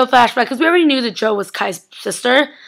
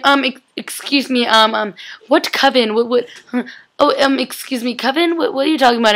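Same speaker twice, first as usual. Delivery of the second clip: confused Liam; 2 semitones higher than usual. Retold or imitated. Acts out Liam's confused reaction.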